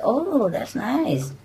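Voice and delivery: slow, drawn-out approval; slow, acted "how nice" reaction; pleased reaction. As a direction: draw it out in mild, friendly interest. Driver reacts to child's answer.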